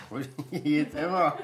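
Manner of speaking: laughing through the words; amused repeat with a laugh. Real, not acted. Repeats carer's remark, amused.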